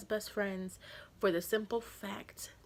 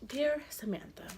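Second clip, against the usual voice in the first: higher, mock-formal letter opening; re-enacted letter reading; 6 semitones higher than usual. Girlfriend reading his letter out before his mom, re-enacted read-aloud. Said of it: "This is me with the letter".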